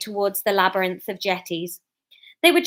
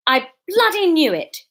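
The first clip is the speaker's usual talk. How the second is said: louder, higher sneer at her husband; 7 semitones higher, 5 dB louder than usual. A narrator's reading. Wife catching husband out, sneering loudly. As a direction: spit it out with contempt. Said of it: "looking him up and down sneeringly".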